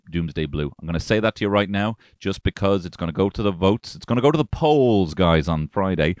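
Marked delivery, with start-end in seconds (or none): 3.9-5.1 emphatic. Acted. Punchline build on polls.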